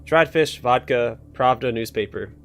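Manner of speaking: loud uncontrollable outburst; yelling tic. Acted. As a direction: shout the words involuntarily. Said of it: "Sorry for yelling".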